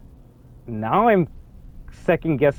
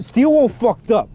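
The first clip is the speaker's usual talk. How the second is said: higher-pitched, incredulous verdict; exclaiming; 6 semitones higher than usual. Real, not acted. Player reacting to the changed note, exclaiming. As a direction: blurt it out, pitched up.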